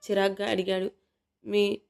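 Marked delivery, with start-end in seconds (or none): 1.4-1.8 slow, halting, embarrassed words; stammering. Acted. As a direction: stumble shyly over each word. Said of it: "ఒక్కో మాట తడబడుతూ".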